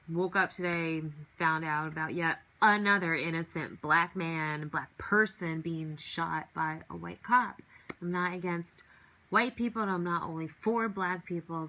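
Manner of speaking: talking about a police shooting, real anger. Real, not acted. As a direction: let the outrage push the words out. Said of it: "it does enrage me".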